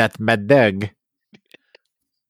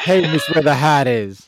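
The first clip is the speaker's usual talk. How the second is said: mock crying voice; 5 semitones higher than usual. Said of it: "Why are you saying it like that".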